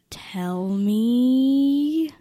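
urging a sister to share a secret in a whisper; whispered coaxing. Retold or imitated. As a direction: whisper "Tell me." close and secretive. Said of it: "And I'm like".

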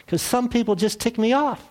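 high, deadpan punchline voice; lightly voiced God, annoyed; God answers the man's complaint, mock grumpy; God's reply. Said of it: "And God sa-, answers back".

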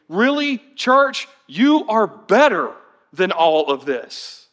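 mock-impressed sarcasm, slowing at the end; sarcastic. Pastor voicing Paul's sarcasm to the church, dry mock praise. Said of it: "best uses of sarcasm".

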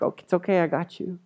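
softening into acted comfort; calm a panicking friend; reassuring. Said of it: "And he's like".

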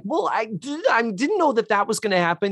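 high-pitched, stammering mock protest; imitating Blair. Host retelling what she's like, high imitated protest. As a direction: put on a high, halting girl character voice. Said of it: "And she's like".

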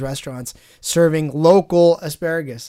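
"local" said with weight, as the point of the sentence; stress on local. Real, not acted. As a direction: lean on the word "local" in "restaurants serving local asparagus". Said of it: "I put the emphasis on the word local".

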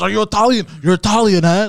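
imitated high, loud rant; freaking-out yell. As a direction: shout it like a man flipping out. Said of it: "started freaking the fuck out".

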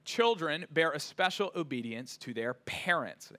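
preacher emphasizing "parents"; stress on parents. Shown as a demonstration. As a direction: lean on the word "parents" at the end. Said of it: "Emphasis on that last word".

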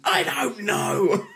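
high, slow, dragged-out "I don't know" through laughter; laughing. Retold or imitated. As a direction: say it laughing, caught out. Child admits he doesn't know.

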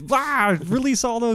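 very high, loud comic yell; mock frantic firing. Imitating soldiers firing at nobody, mock frantic yell. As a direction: blurt panicked orders in mockery. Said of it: "it's just reactionary firing".

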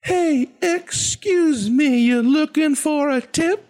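slow, very high, rhythmic pick-up line; high-pitched kids' show host approaching a stranger; DJ Lance Brock. Acted. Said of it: "I'm totally gonna do that".

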